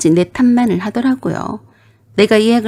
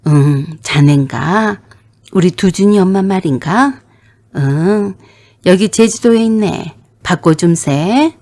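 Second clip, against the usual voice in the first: put-on slow, unhurried old father on the phone; an easygoing dad drawling into the receiver; lightly voiced old father, slow; elderly father; slower than usual. Father answers son-in-law's call.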